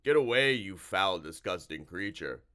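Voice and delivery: a monster squealing in revulsion; frightened creature. Acted. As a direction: shrink back and shove the words away. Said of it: "it said".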